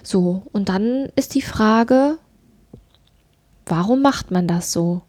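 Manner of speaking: usual speaking voice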